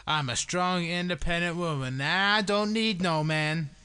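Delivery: loud, slow mock Russian accent. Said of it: "in a Russian accent".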